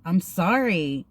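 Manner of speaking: slow, drawn-out apology; acted-out meek sorry; mock apologetic. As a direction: imitate your own meek apologizing. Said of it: "I just kept apologizing".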